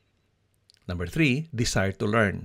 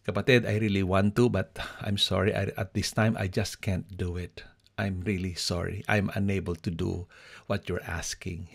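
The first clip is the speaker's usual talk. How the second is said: sincere apology. Shown as a demonstration. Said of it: "Pwede mong sabihin".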